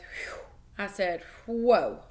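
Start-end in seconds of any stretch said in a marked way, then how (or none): 0.0-0.4 soft puff of breath; winded whew. A narrator's reading. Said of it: "tried to catch my breath". 1.5-2.0 loud, breath-caught whoa; stunned whoa. A narrator's reading. Stunned by own reflection.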